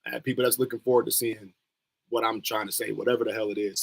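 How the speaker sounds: normal talking voice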